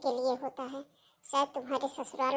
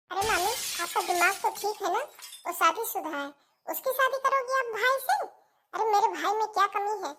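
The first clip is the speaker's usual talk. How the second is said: mildly outraged, pitch rising; indignant objection; 5 semitones higher than usual. Acted. Puja protesting aunt's match for her brother, indignant. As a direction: object in raised-pitch disbelief.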